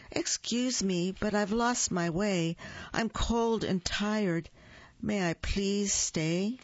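lightly acted weary little creature asking to stay; lightly voiced lost squirrel. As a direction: plead gently for shelter, a hint of a small animal. Voices a lost animal visitor.

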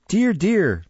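high-pitched, mild lament; dismayed exclamation. A narrator's reading. Mistress reacting to the beadle's blame, mildly dismayed exclamation. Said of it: "ejaculated Missus Sourberry".

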